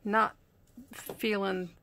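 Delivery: breathless, halting words between breaths; short of breath. Real, not acted. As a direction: talk while out of breath and unwell. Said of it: "Sorry if I'm short of breath".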